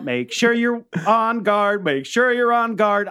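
slow, pressing "Make sure you're on guard"; insistent warning. Pretend. Player drilling the warning, slow and pressing. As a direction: lean on "sure", drawn out. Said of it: "really reinforcing the being on guard".

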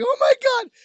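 high-pitched "I was dying" exclamation; retold amused outburst. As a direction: re-enact losing it at a funny scene. Acted reaction to funny scene.

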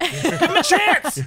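slow, high, laughing plea; pleading laugh. Pretend. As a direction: beg through a laugh. Pleading for Jim.

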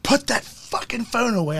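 slow barked command from a customs officer; retold officer's angry order, slowed down; retold angry yell. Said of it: "all I heard was".

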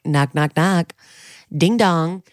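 lightly imitating a kid interrupting; playful hint of a child's voice; child impression. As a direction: sing out a little kid's knocking. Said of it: "you did a good impression of her".

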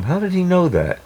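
imitating the old man's astonishment, pitched high; mock baffled disbelief; old man asks the mom, half-amused, high surprise; amazed question. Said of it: "he said to my mom".

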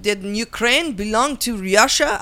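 put-on slow, heavy Russian accent. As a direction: speak like a sultry Russian spy, slowly. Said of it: "I can't do a Russian accent".

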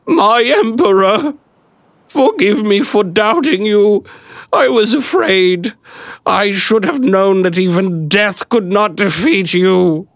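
high, slow, tearful woman's voice; a weeping peasant woman, high and slow. Acted.

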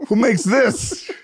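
slow, dreamy wondering; slow stoned drawl. Retold or imitated.

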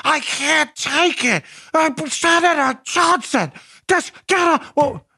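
high, slow hammed-up beaver voice. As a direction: squeal it out slow as a cartoon beaver. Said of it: "Do you like my Beaver voice?".

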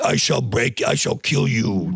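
lightly put-on Russian villain voice; Ivan Drago. Host testing whether he gets in trouble, mock Russian accent. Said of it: "No, Russian is fine".

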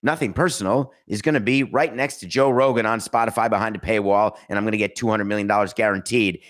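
mock bragging. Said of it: "That's like me coming out and saying".

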